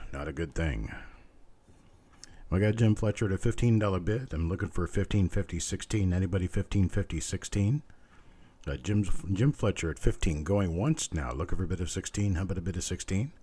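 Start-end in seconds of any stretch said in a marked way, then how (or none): 2.5-13.3 rhythmic auctioneer bid calling. Acted. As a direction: keep the bids rolling like an auctioneer.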